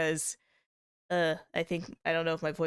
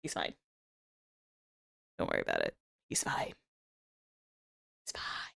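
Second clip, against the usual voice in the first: fading whisper; 7 dB quieter than usual. Pretend. Reassuring about mascot, fading.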